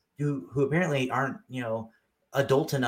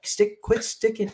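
retold yell; 9 semitones higher, 4 dB louder than usual. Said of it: "he purposely yelled this out".

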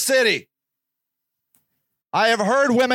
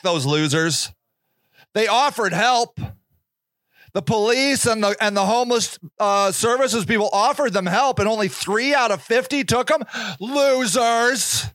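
sneering reader. Retold or imitated. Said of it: "You're like".

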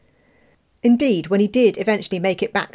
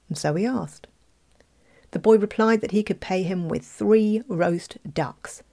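plain reading voice

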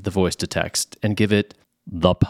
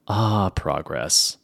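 wry; 3 semitones lower, much slower than usual. Real, not acted. Sarcastic sigh at tech.

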